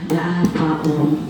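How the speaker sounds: low, cocky question; arrogant. A narrator's reading. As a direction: ask it like a smug little brat. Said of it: "Andi bersuara sombong".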